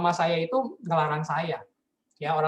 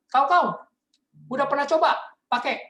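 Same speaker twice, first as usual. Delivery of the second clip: higher and louder suspicious mom; mom interrogating; 8 semitones higher, 5 dB louder than usual. Retold or imitated. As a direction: grill him like a suspicious mother. Mother interrogating son. (mama menginterogasi anaknya dengan curiga)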